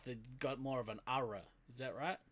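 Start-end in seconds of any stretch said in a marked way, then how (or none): 1.1-1.4 a touch of Southern US accent on ara. Shown as a demonstration. New Zealander guessing at the R down South, Southern US accent. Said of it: "Down the South".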